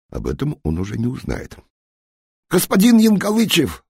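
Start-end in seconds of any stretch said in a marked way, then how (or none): 2.5-3.8 very high, loud squeal like a pig; a doomed spy squealing for the general to come back; shrieking squeal. A narrator's reading. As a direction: shriek in terror. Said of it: "взвизгнул он совсем как поросёнок".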